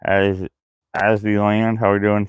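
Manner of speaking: talking around a lighter in mouth; mouth full. Real, not acted. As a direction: speak with something held in the teeth. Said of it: "I got a lighter in my mouth right now".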